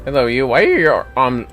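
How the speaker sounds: usual speaking voice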